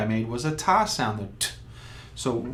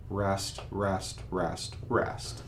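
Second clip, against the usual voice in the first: softer, evenly counted rest; counting rests aloud; 5 semitones lower, 8 dB quieter, much slower than usual. Shown as a demonstration. Teacher counting rest beats to a trumpet student, soft and steady. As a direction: count each rest as one beat. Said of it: "you're gonna say the word rest four times".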